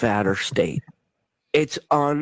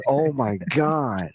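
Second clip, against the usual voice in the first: stunned, slow; much slower than usual. Retold or imitated. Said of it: "And I'm like".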